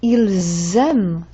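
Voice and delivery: "ils aiment" slowed, with a long z; slow demo of the buzzing z in "ils aiment"; plural z liaison. Shown as a demonstration. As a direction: dwell on the z joining "ils" to "aiment". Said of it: "That Z sound tells me it's more than one".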